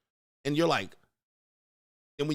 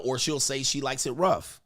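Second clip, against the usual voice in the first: ordinary talk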